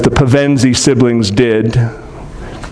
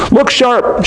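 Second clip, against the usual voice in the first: higher, urgent call; rally the others, lightly shouted; boy urging siblings, a read-aloud shout; mild mock shout; 9 semitones higher than usual. A narrator's reading. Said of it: "shouted Edmund".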